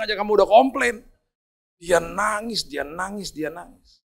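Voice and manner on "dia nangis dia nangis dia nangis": each one softer until it's barely there; fading repetition. A narrator's reading. Preacher retelling the driver's crying, fading softer. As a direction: let it die away.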